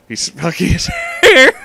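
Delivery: words breaking into high helpless laughter; cracking up mid-sentence, voice jumping way up; laughing. Real, not acted. Reader loses it repeating the absurd line, laughing.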